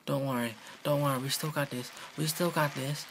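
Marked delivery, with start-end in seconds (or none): 2.2-3.1 higher and higher cheering on, then a cry of yes; rising hype to a win; excited urging. Real, not acted. Player urging his character over the finish, rising excitement.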